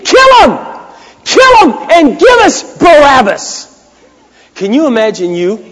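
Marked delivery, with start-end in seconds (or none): 0.0-3.7 high, loud crowd chant in imitation; screaming mob. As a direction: scream it like a crowd demanding an execution. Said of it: "is screaming".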